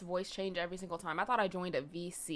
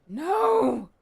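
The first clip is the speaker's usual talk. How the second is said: sharp no; 6 semitones higher, 9 dB louder than usual. Real, not acted. Stopping pet from something.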